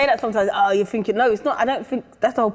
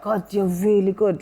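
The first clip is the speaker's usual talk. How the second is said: put-on Jamaican mum accent; slower than usual. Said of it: "I keep doing the accent".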